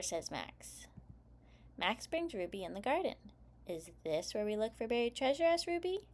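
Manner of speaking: put-on lively read-aloud for young kids; story narration. A narrator's reading. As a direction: read it like story time for preschoolers. Reads picture book aloud.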